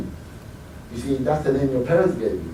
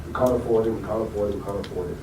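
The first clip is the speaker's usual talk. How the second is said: imitating his father; 7 semitones lower, 9 dB quieter, faster than usual. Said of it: "my father said all our lives".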